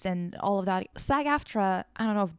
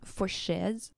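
imitating a singer; 5 dB quieter than usual. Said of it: "him saying".

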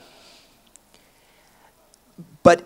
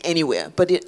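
usual speaking voice

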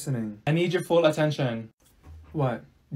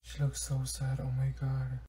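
very soft concerned murmur; hushed; 4 semitones lower, 11 dB quieter than usual. Real, not acted. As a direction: hush it so she can't hear. Whispering about crying friend.

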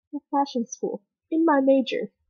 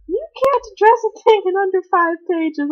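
mock teacher voice; 8 semitones higher, 7 dB louder than usual. Teacher quoted, high mock voice.

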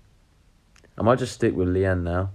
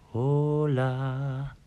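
put-on Spanish accent; 6 semitones higher than usual.

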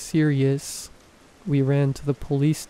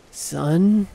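growling voice; 4 semitones higher than usual. Acted. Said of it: "her voice was strange, almost a growl".

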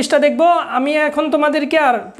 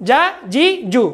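"যা জি জু" with each vowel cut short; quick short vowels. Shown as a demonstration. Teacher showing students how harakat are read, quick short vowels. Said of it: "তাড়াতাড়ি পড়তে হবে".

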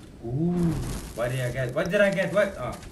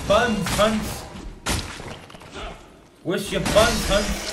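silly taunting voice; 6 semitones higher, 3 dB louder, slower than usual. Pretend.

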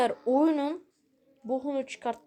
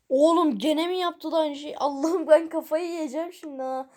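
louder, higher, fed-up yelling at the game; real gamer rage, voice raised; exasperated outburst; 4 semitones higher, 5 dB louder than usual. Real, not acted. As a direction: blow up at the game in frustration. Game keeps breaking, player exasperated.

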